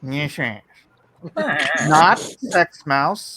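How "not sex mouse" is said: "Not sex mouse" slow and mushy; mush mouth. Real, not acted. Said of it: "Did you say mush mouth?".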